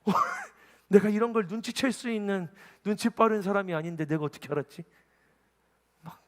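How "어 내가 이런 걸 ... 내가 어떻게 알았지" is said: hammed-up astonishment with a laugh; higher, louder baffled self-questioning; greater surprise. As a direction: act stunned at your own insight. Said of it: "저는 더 놀라요".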